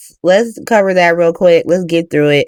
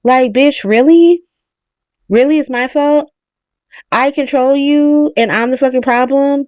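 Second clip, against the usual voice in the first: indignant retort, rising; mock indignant; 3 semitones higher than usual. Mother snapping back at her daughter, indignant. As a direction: throw the blame back, outraged. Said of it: "And Nina tells her that".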